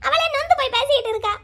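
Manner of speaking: high, sobbing plea; weeping mother. Acted. A mother begs her elder daughter through tears, high and sobbing.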